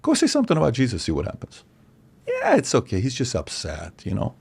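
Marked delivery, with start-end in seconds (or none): 2.3-4.3 mock dismissive voice. Mocking tolerant Christians' shrug.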